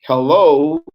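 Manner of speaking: hello sung out high and loud; demo hello. Shown as a demonstration. Teacher modelling hello for her students, high and loud. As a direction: lift hello up high and bright. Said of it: "when you say".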